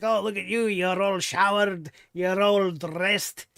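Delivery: badly faked Scottish accent, drawn out at the end; mock Scottish accent, imitating a friendly greeting; terrible Scottish accent. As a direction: put on a bad, hammed-up Scottish brogue. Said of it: "My terrible Scottish accent".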